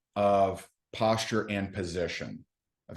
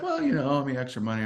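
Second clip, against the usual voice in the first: a higher, evasive hedge; imitating an evasive prospect; 4 semitones higher, faster than usual. Prospect dodging why he wants money, mimicked higher and evasive. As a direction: mimic him dodging the question. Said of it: "He's like".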